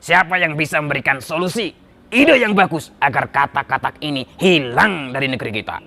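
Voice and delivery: lightly voiced king addressing his ministers, groaning midway; troubled king. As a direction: complain as a weary king, then demand ideas. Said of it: "sang raja mengumpulkan para menteri-menterinya".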